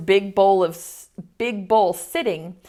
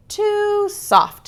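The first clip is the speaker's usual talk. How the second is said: put-on fussy girl voice; 12 semitones higher than usual. Aluki tries beds.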